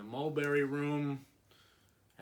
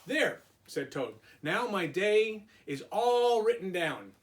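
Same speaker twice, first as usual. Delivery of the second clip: Toad, higher and a little louder, pleased; 4 semitones higher, 4 dB louder than usual. Acted. Teacher voicing Toad proud of his list, higher. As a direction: lift the voice for Toad's satisfied There.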